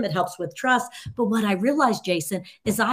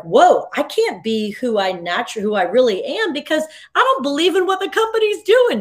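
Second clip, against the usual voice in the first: sudden high exclaim of realization; mock dismay; 8 semitones higher, 6 dB louder than usual. Worker realizing the company clashes with their values, high exclaim. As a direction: act out the jolt of cognitive dissonance. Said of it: "you're like".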